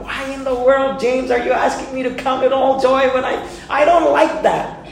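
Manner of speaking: a hint of a petulant believer asking why; imitating a complaining believer. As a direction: play the reluctant believer protesting. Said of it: "have you ever asked the question".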